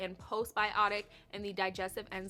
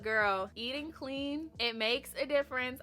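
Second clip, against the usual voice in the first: affectionate nagging; 4 semitones higher than usual. Pretend. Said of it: "I'm gonna sound like a nagging mom".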